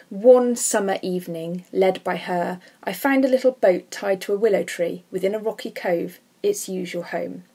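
measured read-aloud of the lines; poem quote. Acted.

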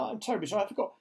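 mildly dejected confession; murmured apology. A narrator's reading. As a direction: admit defeat sheepishly. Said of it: "James murmured".

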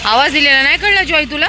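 mock-stern loud scolding; scolding call. Real, not acted. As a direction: tell the dog off from afar. Scolding dog for not coming.

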